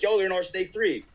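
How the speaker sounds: high alarmed call; alarmed teammate. Retold or imitated. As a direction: warn them in a high voice. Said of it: "My dude's like".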